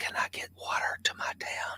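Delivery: put-on hushed whisper. Recalling a mayor's call during a disaster, imitating a hushed whisper. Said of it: "in hushed tones, whispering like".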